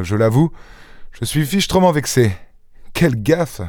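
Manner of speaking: gentleman enjoué, voix plus haute; Lupin qui raconte. Acted. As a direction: conter sa mésaventure avec une ironie vive. (Lupin, narquois et vexé)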